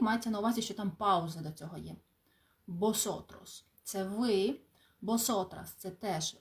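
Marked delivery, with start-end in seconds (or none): 2.7-3.6 "Босотрос" slowly, beginning with a b sound; V read as B. Shown as a demonstration. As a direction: model "Босотрос" after a pause, hard b at the start. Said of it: "на початку слів читається як Б".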